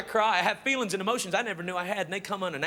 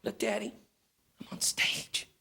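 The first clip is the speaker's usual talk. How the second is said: low, soft proud little voice; a hushed kid showing off; child on a curb calling to dad; little girl; 10 semitones lower, 6 dB quieter than usual. Retold or imitated. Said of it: "she goes".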